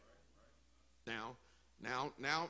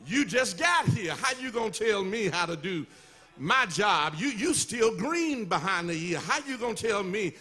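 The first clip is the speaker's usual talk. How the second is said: indignant fisherman; 4 dB louder than usual. Acted. Preacher voices an indignant professional.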